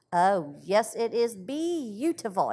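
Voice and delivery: beautiful said slowly, each syllable spaced; be-au-ti-ful, careful and slow; deliberate syllables. A narrator's reading. Peony answering her sister, sounding out beautiful slowly. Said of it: "pronouncing the three syllables with deliberate accuracy".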